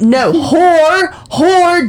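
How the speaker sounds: repeated loudly into the mic; loud emphasis. Shown as a demonstration. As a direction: stress hard on "whore", nearly yelling. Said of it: "Let's not yell into it".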